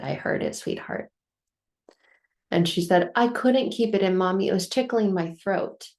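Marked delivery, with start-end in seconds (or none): 0.0-1.1 retold soft, low motherly comfort; lightly acted tender murmur; gentle reassurance. Mother soothing her upset daughter. 3.2-5.9 lightly voiced little daughter, pitched up; retold child's earnest excuse; child explaining herself. Voicing her upset daughter explaining herself.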